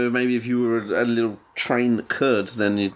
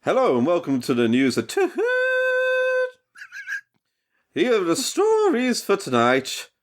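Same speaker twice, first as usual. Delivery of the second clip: a light newsreader voice that slips into chuffing; mock news read, breaking into train noises; newscaster turning into a steam engine; 4 semitones higher than usual. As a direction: newsreader hiding that he's becoming a train. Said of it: "a newscaster trying desperately not to let on".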